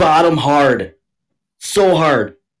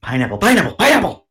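mock safe word call; 5 semitones higher, faster than usual. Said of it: "what was the safe word again".

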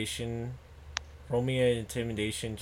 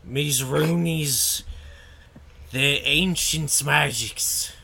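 goblin voice; 4 semitones higher, 4 dB louder than usual. Acted. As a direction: talk like a scared goblin. Goblin answers the interrogation.

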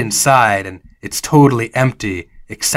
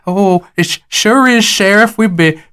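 higher, stammering false welcome; nervous Jonas; 7 semitones higher, 3 dB louder than usual. Acted. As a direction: act plumb happy while flustered.

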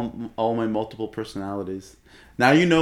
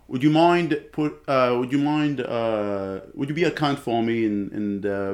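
put-on Australian accent; slower than usual. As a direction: wobbly attempt at an Australian accent. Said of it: "Can you do the Australian accent?".

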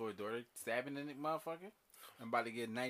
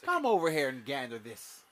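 mock grandiose; 5 dB louder, slower than usual.

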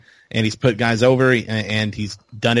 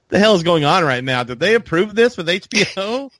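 incredulous; 8 semitones higher than usual. Retold or imitated. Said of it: "And I was like".

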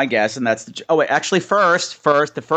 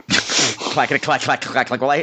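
puppet clacking; 3 semitones lower, slower than usual. Retold or imitated. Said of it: "hear the puppetry in that trailer".

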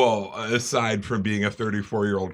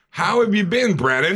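louder and higher, bright restart; eager greeting; 11 semitones higher, 8 dB louder than usual. Shown as a demonstration. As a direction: greet him with a big fresh welcome. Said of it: "Let's try this again".

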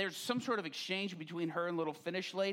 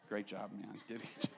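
mock praise; 8 semitones lower, 7 dB quieter than usual. Pray-er praises fallen person.

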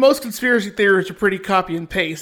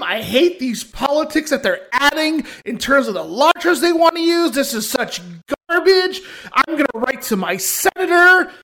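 mock outrage. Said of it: "the speaker's fake outrage".

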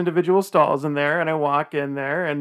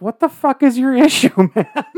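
retold confrontation; 8 semitones higher, 9 dB louder than usual. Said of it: "I was like".

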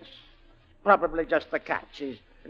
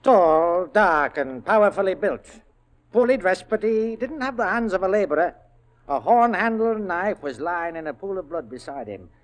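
agitated account; 6 dB louder than usual. Acted. Agitated witness describing the corpse.

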